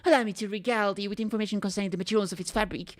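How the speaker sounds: excited knight. Acted. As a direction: gush in defence of a hero. Don Quixote defends Siegfried.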